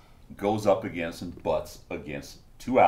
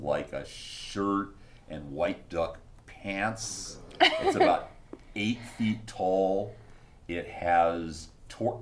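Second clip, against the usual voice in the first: game master's scene setting; 4 dB quieter, slower than usual. A narrator's reading. Game master revealing a hidden idol to players, slow narration. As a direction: unveil it slowly, piece by piece.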